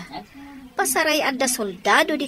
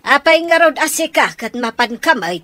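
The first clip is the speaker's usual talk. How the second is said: scolding; 2 semitones higher, 5 dB louder than usual. Acted. Mother scolds son going out.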